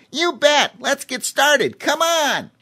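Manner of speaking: high, loud excited chimpanzee; rally him like a hyper chimp; eager chimp. A narrator's reading. Voices Cheemy the chimp.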